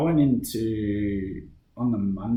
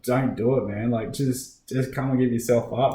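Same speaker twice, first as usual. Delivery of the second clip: raised, pleading mock yell; half-yelled appeal, slightly higher; retold yell; 3 semitones higher, 5 dB louder than usual. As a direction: call out urging someone to give up. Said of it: "trying to yell at this dude".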